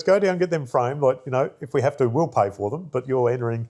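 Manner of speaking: a boss who won't take no; insistent boss. Retold or imitated. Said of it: "She goes".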